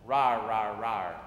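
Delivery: hammed-up bear roaring as he stomps down the mountain. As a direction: roar like a grumpy storybook bear. Bear stomping through meadow.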